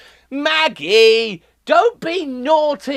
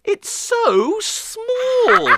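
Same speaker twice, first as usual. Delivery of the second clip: laughing; 7 semitones higher, slower than usual. Acted. Sees his tiny car.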